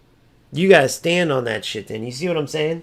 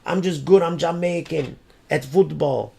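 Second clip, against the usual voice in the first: mock boastful loser; 2 semitones higher than usual. Mocking online losers who brag about being Jamaican, smug voice. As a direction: sneer it like a braggart you despise. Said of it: "These losers that are screaming".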